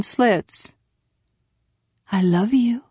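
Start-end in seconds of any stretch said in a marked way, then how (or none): 2.1-2.8 tender whisper; hushed, whispered endearment. A narrator's reading. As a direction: whisper it to a sleepy child. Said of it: "she whispered".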